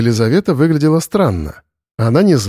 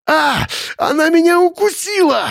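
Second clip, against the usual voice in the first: much higher, shrill-free wail of pain; yelp of pain. A narrator's reading. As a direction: howl as the dog bites. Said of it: "взвыл". (Борис вопит от укуса собаки)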